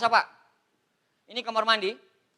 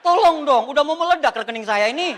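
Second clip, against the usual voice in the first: laughing, louder pretend begging; mock plea; 5 semitones higher, 9 dB louder than usual. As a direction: beg through a laugh. Mengeluh rekening kebanjiran uang. (memohon pura-pura sambil tertawa)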